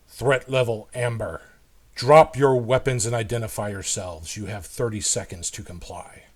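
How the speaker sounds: lightly voiced robot guard, level and mechanical; a hint of a machine reading out a warning; understated deep robot voice giving commands; deep robotic tone. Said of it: "in this very deep, almost robotic-like tone".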